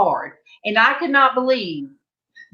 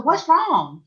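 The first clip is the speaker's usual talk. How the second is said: higher-pitched worried question; retold concern; 6 semitones higher than usual. Sister-in-law getting a late call, retold concern. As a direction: imitate a mildly alarmed relative.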